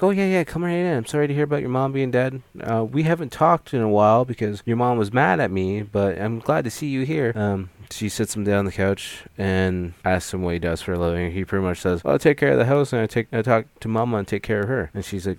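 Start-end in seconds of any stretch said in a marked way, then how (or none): 0.0-7.3 much higher, bubbly fast greeting; mock woman's voice, eager and high; high welcoming woman. 12.0-14.9 louder, higher, eager rush of words; proud of caring for Mama; lightly voiced Ed, quick and earnest. Ed explains his life.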